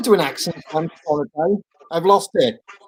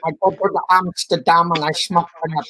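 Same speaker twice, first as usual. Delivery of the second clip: hammy Dutch accent attempt; mock Dutch accent. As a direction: have a go at a comic Dutch accent. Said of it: "A Dutch accent".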